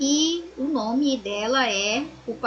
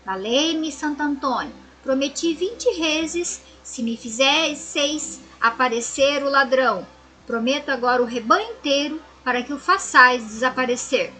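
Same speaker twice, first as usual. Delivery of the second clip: frightened plea; 4 dB louder than usual. Acted. Terrified shepherd begs the saint.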